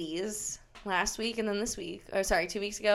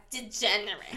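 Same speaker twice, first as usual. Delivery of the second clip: Jersey accent on Degenerates. Real, not acted. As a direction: let the Jersey accent slip. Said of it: "Jersey accent coming out".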